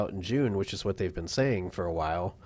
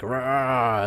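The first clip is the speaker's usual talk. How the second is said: dinosaur roar; 3 semitones higher, 4 dB louder than usual. Pretend. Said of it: "one dinosaur might sound like".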